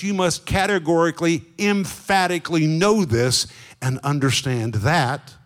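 "categorically" and "emphatically" hit hard, one by one; insistent, with weight on "categorically" and "emphatically"; emphatic exclamation. Shown as a demonstration. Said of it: "which is like an exclamation marker".

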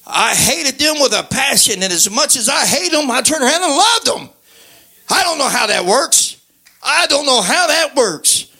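high, impassioned testimony; fervent preaching. Real, not acted. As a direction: preach it with mounting wonder, pitch climbing. Preacher marvels at changed heart.

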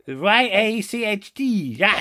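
letter by letter, then "yacht" rhyming with "hatched"; spelling out yacht. Acted. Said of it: "That's how it is pronounced".

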